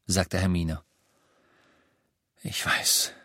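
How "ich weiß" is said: hushed, breathy whisper. A narrator's reading. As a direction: whisper the admission. Harry quietly admits. (Harry gibt es flüsternd zu)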